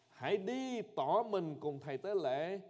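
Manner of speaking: Jesus commanding. Acted. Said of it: "liền phán rằng".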